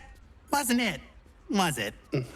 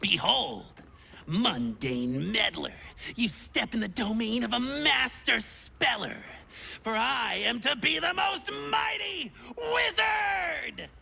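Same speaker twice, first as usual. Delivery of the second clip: pompous wizard; 2 semitones lower than usual. Pretend. Wizard grand self-introduction.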